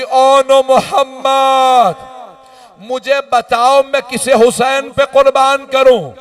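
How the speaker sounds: a mother wailing over her sons' bodies; wailing lament. Acted. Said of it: "रो के कहने लगी". (ऊँची आवाज़ में धीमा, बिलखता मातम)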